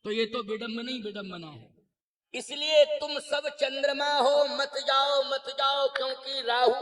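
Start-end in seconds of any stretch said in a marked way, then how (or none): 2.3-6.7 lightly voiced herald, insistent; a hint of a crier's sustained call; herald's warning. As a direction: warn the crowd off with repeated urging. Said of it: "अब बंदी क्या बोले".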